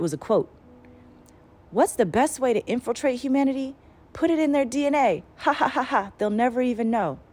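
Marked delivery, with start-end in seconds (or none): 1.7-7.2 lightly voiced sinister message; mock evil taunt; sinister voice quoting.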